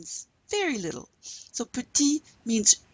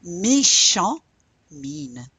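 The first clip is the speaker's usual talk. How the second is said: laughing; 7 dB louder, much slower than usual. Real, not acted. Laughing while modelling the word.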